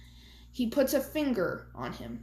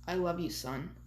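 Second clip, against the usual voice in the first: last breath; 4 semitones lower, 6 dB quieter than usual. Acted. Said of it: "In his last breath".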